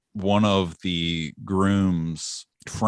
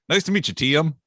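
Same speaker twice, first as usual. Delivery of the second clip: higher, friendly mock of dad; lightly voiced dad, pleasant; dad politely greeting; 9 semitones higher, 4 dB louder than usual. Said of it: "And he's like".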